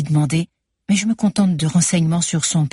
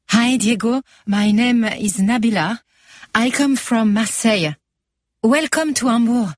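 put-on higher, slow, eager welcome in a light Marseille accent; Nabila in English; 5 semitones higher than usual. A narrator's reading. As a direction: play hostess to the handsome newcomer, higher and slow. Nabila greets Diego in English. (accueil enjoué, plus aigu et lent, à l'accent marseillais léger)

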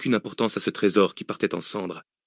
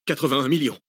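slightly higher, hesitant reply; captive's uncertain guess, pitched up; tentative answer; 5 semitones higher than usual. Acted. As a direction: offer the figure like a nervous pupil. Captive gives his uncertain answer.

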